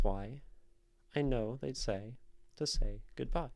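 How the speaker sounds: rhythmic, emphatic poetry recital; metrical poem reading. Shown as a demonstration. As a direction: recite the verse with a marked iambic beat. Rereads the poem to show meter.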